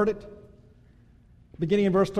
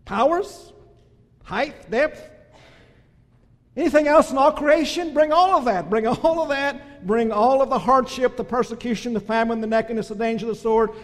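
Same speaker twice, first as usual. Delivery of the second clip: preaching climax; 4 dB louder than usual. Real, not acted. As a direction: hurl every trial into the challenge. Preaching climax listing all trials.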